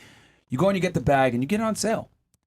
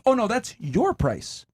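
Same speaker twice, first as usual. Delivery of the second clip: slow, higher, matter-of-fact; a lightly voiced clerk calmly quoting the customer her price; deadpan salesperson; 5 semitones higher, slower than usual. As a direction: calmly tell the customer that's that. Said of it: "salesperson ... says".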